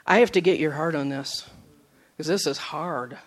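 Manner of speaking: subdued plea. Retold or imitated. Recalls praying to God while hurting.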